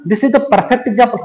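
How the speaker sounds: slow, "perfect" lifted and held; teacher stressing "perfect" to a class. Shown as a demonstration. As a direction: lean on "perfect" as you say it slowly. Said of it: "इस बात पे जोर देके कहने का काम".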